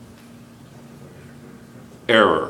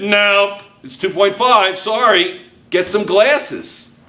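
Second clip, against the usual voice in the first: mock snooty grader; 7 semitones higher, slower than usual. Teacher mocks a snooty grader.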